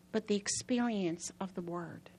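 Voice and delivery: soft unvoiced aside; whisper. Real, not acted. Preacher whispers the key point to the congregation. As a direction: breathe it as a secret.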